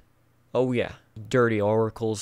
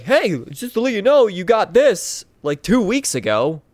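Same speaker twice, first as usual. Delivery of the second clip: mock notification voice; 7 semitones higher, 5 dB louder than usual. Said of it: "It's like".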